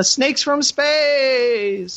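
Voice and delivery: dramatic movie trailer voice. Pretend. Closing rating with dramatic tagline.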